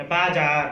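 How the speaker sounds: बाजार said gently with the final syllable held; drawn out. Shown as a demonstration. Teacher demonstrates बाजार slowly for pupils. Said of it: "इसको धीरे से बोला गया".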